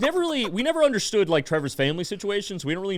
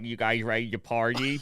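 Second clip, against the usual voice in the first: a hint of Trevor's voice, laughing; lightly voiced teen asking to party; Trevor impression; 5 semitones lower, 3 dB quieter than usual. Friend imitating Trevor arriving to party, light voice. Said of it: "this is exactly how he sounded".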